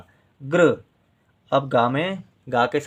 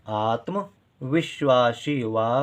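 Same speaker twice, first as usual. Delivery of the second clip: slow sounding out; much slower than usual. Shown as a demonstration. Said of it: "teacher sounds out the word".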